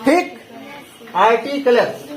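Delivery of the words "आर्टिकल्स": "आर्टिकल्स" read literally as aar-ti-ka-les; अक्षरशः उच्चारण. Shown as a demonstration. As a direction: sound out "आर्टिकल्स" by its spelling, ending in "les". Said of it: "होना तो यही चाहिए". ("आर्टिकल्स" को आर-टी-क-लेस जैसा पढ़ना)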